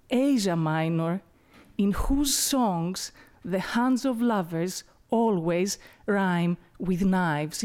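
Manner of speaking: measured poem reading with slowed line endings; unhurried recital of a poem to an audience; poetry reading. Acted. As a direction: read it as a poem, letting each line settle. Reads the poem aloud.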